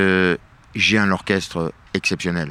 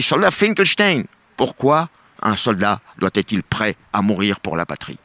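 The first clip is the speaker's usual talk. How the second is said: mock general. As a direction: play the general inspecting troops. General questions Finkelstein.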